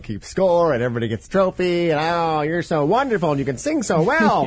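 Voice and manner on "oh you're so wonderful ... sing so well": high, gushing mock praise; mock coddling parent. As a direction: gush like a doting parent.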